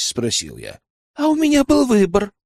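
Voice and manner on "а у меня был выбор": put-on much higher girl's voice, bitterly ironic; bitter scoff. A narrator's reading. Spy answers elder on whether she agreed, bitter. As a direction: throw it back as a bitter rhetorical question. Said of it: "горько усмехнулась Веслава".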